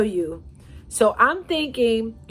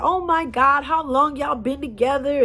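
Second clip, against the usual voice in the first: gushing onlookers; 5 semitones higher than usual. Retold or imitated. Crowd gushing at the couple.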